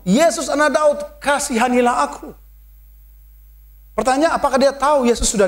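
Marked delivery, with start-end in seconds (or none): 0.1-2.3 high pleading cry; a raised plea for mercy. A narrator's reading. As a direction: call out to Jesus, begging. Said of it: "Lalu ia berseru".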